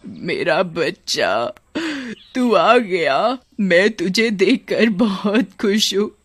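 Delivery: put-on slow, tender old woman voice; relieved mother welcoming her son. Old woman relieved to see her son, tender and slow.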